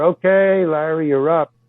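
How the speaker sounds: brisk retold summons; calling out. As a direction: imitate a crew member summoning an actor. Crew calls through dressing-room door.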